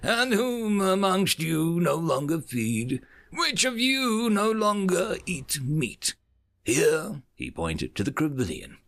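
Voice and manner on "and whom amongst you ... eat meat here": scornful questions. Acted. Envoy mocking council's hypocrisy.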